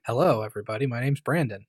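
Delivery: put-on host introduction; projected presenter voice. Shown as a demonstration. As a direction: greet the audience like a trained presenter. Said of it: "I could talk like this".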